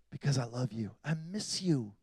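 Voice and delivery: very soft, low voice of God; gentle confession, barely projected; tender hush. Acted. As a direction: drop to a hushed, loving plea. Acting God's tender appeal.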